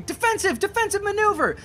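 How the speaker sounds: high, loud battlefield order; shouted command. Acted. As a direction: bark the order over the fight. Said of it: "even when he was going".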